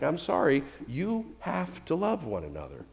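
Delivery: sorry-to-break-it-to-you delivery; mock apologetic. Shown as a demonstration. Pastor breaking bad news to the congregation, mock apology. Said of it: "Sometimes it's bad news".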